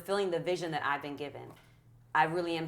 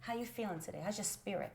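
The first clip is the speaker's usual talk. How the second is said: encouraging parent; 8 dB louder than usual. Retold or imitated. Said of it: "I'm speaking to".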